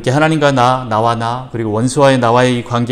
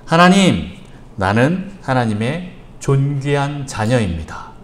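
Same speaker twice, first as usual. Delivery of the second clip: slow and even, spaced out for writing down; slow dictation; slower than usual. Shown as a demonstration. Pastor dictates the declaration to the congregation, slowly. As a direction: dictate it slowly so they can copy it. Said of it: "잘 적으십시오".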